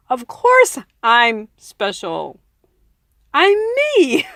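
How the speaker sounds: mock indignant, pitch jumping up on I'm me; smug self-defense. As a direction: play the defensive self-assured voice.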